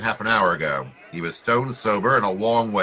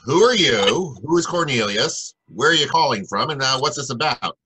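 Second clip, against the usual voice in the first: higher and louder, pressing the caller; startled questions; 6 semitones higher, 5 dB louder than usual. Acted. Marlowe demands answers from a frantic late-night caller, higher and louder. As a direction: fire the questions back, thrown off balance.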